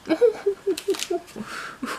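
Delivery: high, soft giggle of delight; delighted laugh. Real, not acted. Vlogger discovering heart-shaped candies, delighted laugh. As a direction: let out a high, cooing laugh. Delighted at next unboxed item.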